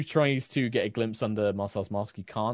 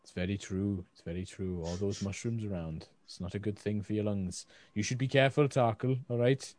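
softer, lower attempted Welsh accent; Hulda; 3 semitones lower, 4 dB quieter than usual. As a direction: give gentle advice in a botched Welsh lilt. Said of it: "it was my attempt at Welsh".

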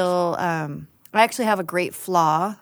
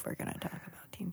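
whispering; 18 dB quieter, much faster than usual. Real, not acted. Whispered aside.

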